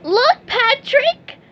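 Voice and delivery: very high, slow, thrilled call; excited cry. Acted. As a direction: point it out in delight. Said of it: "SpongeBob cried".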